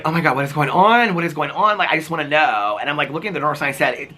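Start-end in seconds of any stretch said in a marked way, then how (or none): 0.0-2.8 panicked plea. Retold or imitated. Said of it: "And I'm, like, crying".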